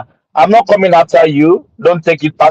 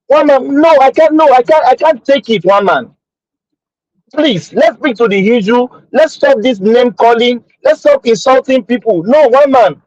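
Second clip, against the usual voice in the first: higher-pitched, agitated protest; angry; 5 semitones higher than usual. Real, not acted. Panelist objecting to insults on the platform, angry. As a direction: protest heatedly, pitch raised. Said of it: "I'm angry".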